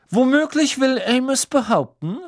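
high, loud, icy indignation; cold fury. A narrator's reading. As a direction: challenge the accuser with cold rage in every syllable. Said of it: "mit kalter Wut in jeder Silbe".

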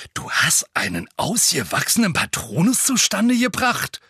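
loud booming interruption. Acted. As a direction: cut him off with a booming voice. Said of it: "mit dröhnender Stimme".

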